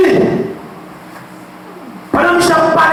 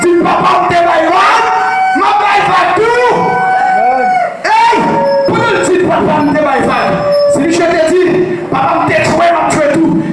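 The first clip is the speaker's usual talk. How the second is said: rousing preaching; 3 semitones higher than usual. Acted. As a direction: build the sermon's fire. Preaching at full force.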